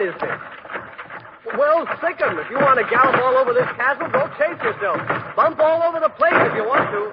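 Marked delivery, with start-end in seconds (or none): 1.6-7.1 shouting. Acted. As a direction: yell it at the noises upstairs. Yells at unseen ghosts.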